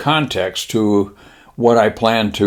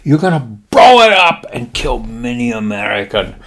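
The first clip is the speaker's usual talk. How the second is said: Japanese admiral; 7 semitones higher than usual. Acted. Admiral briefing pilots on mission, high mock-Japanese proclamation. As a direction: proclaim it in a put-on Japanese accent. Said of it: "He says".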